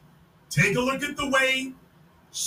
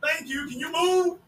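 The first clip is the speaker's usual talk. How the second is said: mock suitor; 3 semitones higher than usual. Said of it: "Old boy's like".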